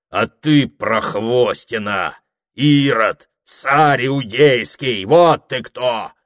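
медленно, с расстановкой, хмельная обида; бранит собутыльника, почти своим голосом; тяжеловесный дьякон. Acted. Дьякон отвечает Прохору. (дьякон пьяно и медленно бранит Прохора)

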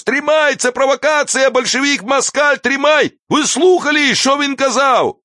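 high-pitched whining yell; shrill spiteful man's cry; cracked, spiteful, whiny. A narrator's reading. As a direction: cry out with malice and a whine. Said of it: "злобный и плаксивый голос".

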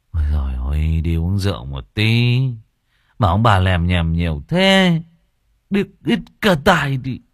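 lightly voiced, grumbling slurred son; grumbling drunk son. Lightly voiced drunk son grumbling back at his parents. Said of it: "cằn nhằn theo mẹ".

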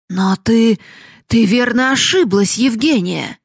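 loud, high shout at the daughter; angry father shouting at his daughter; outraged shout. Acted. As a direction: shout her down in disbelief.

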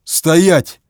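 loud barked order; barked command. A narrator's reading. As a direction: bark it like an angry bear. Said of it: "рявкнул кряжестый".

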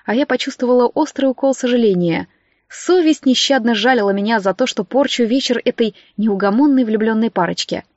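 ordinary delivery, nothing marked

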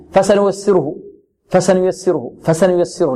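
hurried wrong-example recitation; rushed vowels. Shown as a demonstration. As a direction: recite فسنيسره too quickly, clipping each short vowel. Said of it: "البعض ربما يسرع فيها". (اختلاس الحركات بالإسراع فيها)

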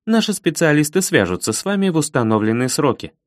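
even, toneless operator voice; robot voice. Acted. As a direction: recite it like a machine. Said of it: "ровным голосом произнесла эта Алина".

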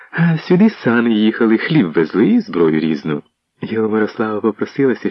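ordinary delivery

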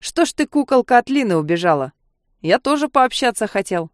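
lightly voiced drunk guy; a hint of slurred drunk. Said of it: "несло спиртным".

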